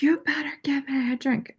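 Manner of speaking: lightly voiced drunk; mock angry demand. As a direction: lampoon the livid musician. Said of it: "He's like".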